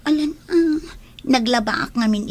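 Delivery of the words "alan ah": whimpering, hurting plea; a pained, tearful call for help; crying out in pain. Acted. Wife complaining her back hurts.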